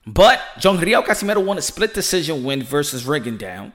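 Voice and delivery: normal talking voice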